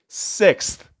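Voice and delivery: breathy, hushed in disbelief; awed hush. Real, not acted. Stunned by Sevilla's sixth title, hushed Sixth. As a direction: barely voice the word Sixth.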